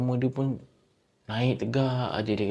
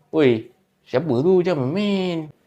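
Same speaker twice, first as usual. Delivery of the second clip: louder, slowed shout at the door; irritated shout; 4 semitones higher, 6 dB louder, slower than usual. Retold or imitated. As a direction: tell the knocker to stop. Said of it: "Dia pun macam". (membentak dengan kesal)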